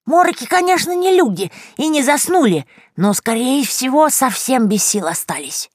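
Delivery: a cackling granny confiding a secret; grandmotherly witch voice; old crone voice. A narrator's reading. Yagusya's crone voice held.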